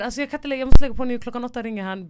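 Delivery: high, squealing mock of a clingy girlfriend; mock girly voice. Friend mocks a phone-dating girl, in a high squealing voice. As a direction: pitch it way up like a giddy girl glued to the phone.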